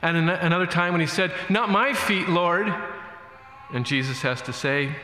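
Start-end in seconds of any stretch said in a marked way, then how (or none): 1.5-2.7 Peter. Retold or imitated. Peter protests to Jesus.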